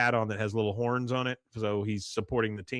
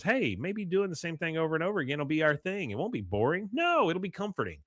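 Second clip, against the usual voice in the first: higher-pitched mock reassurance with a smirk; 6 semitones higher than usual. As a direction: imitate a smug dig, lilting upward. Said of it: "she kinda smirks".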